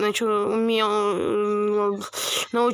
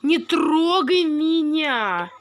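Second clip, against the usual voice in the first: playful yell; 5 semitones higher, 4 dB louder, much slower than usual. Pretend. Playful cry in game.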